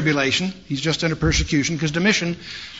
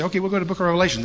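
fast, lightly irritated brush-off; annoyed; 4 semitones higher, much faster than usual. Retold or imitated. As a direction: rush it like they're fed up. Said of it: "they get annoyed and say".

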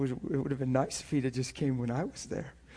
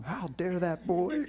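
imitating angry dad; 2 semitones higher, slower than usual. Dad ranting to mom about son.

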